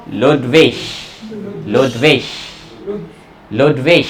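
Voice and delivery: लुड्विग ending soft, near lutve; Hochdeutsch pronunciation. Shown as a demonstration. Teacher gives Berlin लुड्विग to students. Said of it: "उसके अंदर क्या बोलते हैं इसको".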